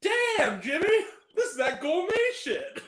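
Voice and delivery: high, exclaiming movie quote; hammed-up impressed exclamation; acted appreciation. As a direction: call it out high, in character. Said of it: "when he's talking about".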